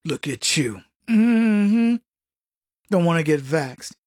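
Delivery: low, sneering look at you; mock scornful scold. Mocking a vaccine scold, low sneer. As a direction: sneer down at the unvaxxed, pitched low.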